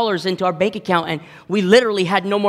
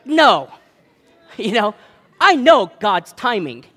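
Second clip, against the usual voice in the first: higher, louder half-joking protest; mock exasperated outburst; 3 semitones higher, 3 dB louder, slower than usual. The pastor snapping back at his wife, a mock exasperated outburst. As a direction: pretend to snap, laughing at yourself. Wanting to flip the table.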